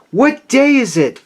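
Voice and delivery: high, eager shout to the street; bright-eyed high-pitched question; calling out. A narrator's reading. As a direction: call down from a window, elated. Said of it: "he called out".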